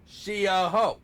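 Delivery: loud, punched-out character impression; Riley. Shown as a demonstration. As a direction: belt it out for someone to copy. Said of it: "get your Riley".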